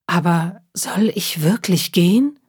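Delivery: whispered doubtful question; hushed fearful whisper. Acted. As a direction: whisper it to yourself, unsure. Cat wonders fearfully at night.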